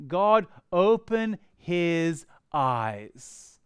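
slow, earnest prayer; lightly voiced humble prayer; simple prayer. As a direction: pray it slowly and earnestly. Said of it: "He prayed a very simple prayer".

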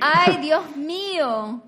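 awestruck exclamation. Retold or imitated. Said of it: "This is when you say".

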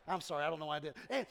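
usual speaking voice

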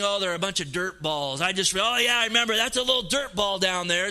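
a hint of a careless, mocking God; mock dismissive God. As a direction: sneer that they're just dirt balls. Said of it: "This isn't God saying".

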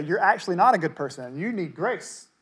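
mock a self-righteous critic pointing a finger; accusing voice. Someone tells the self-righteous they need grace, in an accusing voice. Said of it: "someone comes along to say".

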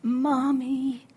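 put-on long, loud child's call; mock toddler scream. Toddler screaming to his mother at checkout, imitated. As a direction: cry out for mommy, drawing it out. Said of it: "when that baby screamed out".

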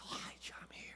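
unvoiced, intimate whisper. Shown as a demonstration. God whispering to Elijah, hushed. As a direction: breathe it like God close by. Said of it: "He says".

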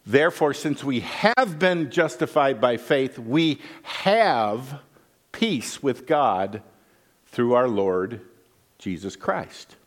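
slow, weighty verse reading; scripture reading. Acted. Pastor reading the verse to the congregation, slow and reverent. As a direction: lean into peace with God, slowly.

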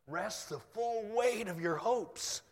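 slow, high, rising proclamation; awed verse repetition. Acted. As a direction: lift and stretch the verse in wonder. Repeats the verse he finds stunning.

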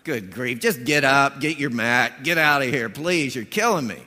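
loud, fed-up burst: "just get up, get your mat"; exasperated Jesus. Retold or imitated. Jesus telling the paralyzed man to get up and go, exasperated. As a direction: shoo him off, out of patience. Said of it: "Jesus, I think, just says".

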